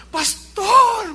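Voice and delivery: pastor voicing the woman's high, loud "Pastor" as she greets him; calls "Pastor" out high and loud, overjoyed; excited call. Woman greeting her pastor after being born again, high and loud.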